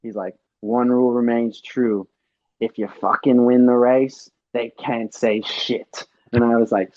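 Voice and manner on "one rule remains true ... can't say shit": imitated Australian pep talk; Australian accent. Australian teammate advising a frustrated rider, Australian accent. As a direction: lay down the rule in an Australian accent, drawing out the end. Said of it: "'cause he's Australian".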